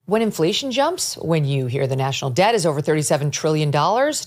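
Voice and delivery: upbeat sponsor read. Acted. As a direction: sell it like a radio spot. Host reads a gold ad.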